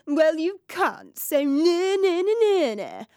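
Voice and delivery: mock shout. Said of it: "would have liked to have shouted".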